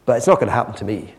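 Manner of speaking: hushed, low, resigned musing; wistful private thought. Acted. Blind beggar to himself about seeing again, wistful. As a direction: think it aloud softly, longingly. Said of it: "And he thinks".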